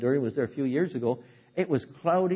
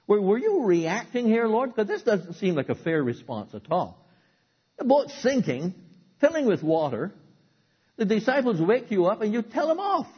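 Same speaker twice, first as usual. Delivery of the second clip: questioning Jesus; 5 semitones higher, 3 dB louder than usual. Retold or imitated. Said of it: "I used to read this and say".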